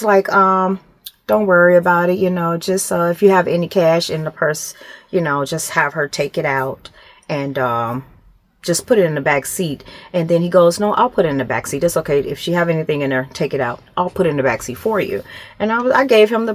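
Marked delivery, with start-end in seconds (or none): 1.3-9.8 lower, softening reassurance; calming officer. Retold or imitated. Nice officer reassuring a confused driver about the purse, calming. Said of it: "he calmed us". 10.8-15.2 low, soft and quick reassurance; calming officer. Retold or imitated. Nice officer offering to move the purse for her, calming. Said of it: "he calmed me".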